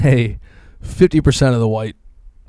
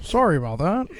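high, mock-polite white guy; comedian's nerdy white man, pitched up high; 6 semitones higher, slower than usual. Comics spoofing stand-up routines, high white guy voice. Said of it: "every black comedian's white guy voice".

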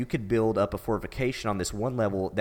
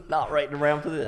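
higher-pitched words through real laughter; laughing; 8 semitones higher than usual. Real, not acted. Co-host reacting to a gaming story, laughing. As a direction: crack up while talking.

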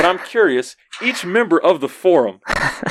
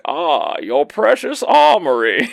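lightly voiced Bane cat; 2 semitones higher, slower than usual. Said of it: "and the cat's like".

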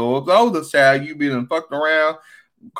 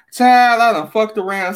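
excited; 8 semitones higher, 5 dB louder than usual. Real, not acted. Bursting out recalling the laugh.

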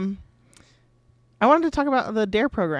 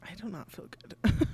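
talking through a burp; words pushed out on a burp; 9 dB quieter than usual. Real, not acted. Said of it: "sorry, I have to burp".

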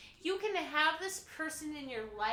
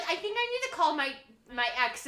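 put-on drunk girl; 4 dB louder than usual. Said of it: "drunk girls in the bathroom".

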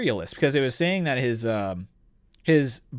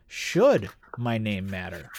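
rhetorical; 6 semitones lower, slower than usual. Retold or imitated. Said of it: "a more rhetorical approach".

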